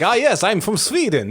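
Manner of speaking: a hint of mock-Swedish accent; generic foreign accent. Shown as a demonstration. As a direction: attempt a Swedish accent that comes out vaguely foreign. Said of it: "like, generic, weird, foreign".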